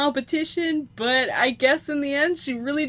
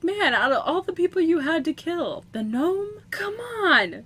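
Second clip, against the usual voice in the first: higher, mock exasperated protest; pissed-off Grim Reaper; 5 semitones higher, 3 dB louder than usual. Grim Reaper protesting the gnome's death, mock pissed off. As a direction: complain in pretend exasperation. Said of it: "The Grim Reaper's just pissed off".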